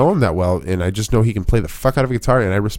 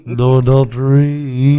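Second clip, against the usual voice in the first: slow, higher, drawn-out preachy refusal; mock piety; 4 semitones higher, 5 dB louder, slower than usual. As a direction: stretch it out like a pious joke. Mock pious refusal continues.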